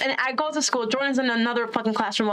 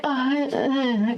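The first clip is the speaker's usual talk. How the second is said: half-asleep grunts, acted out; mock groggy mumbling; imitating sleepy groans. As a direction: groan as if barely awake. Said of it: "'cause I'm asleep".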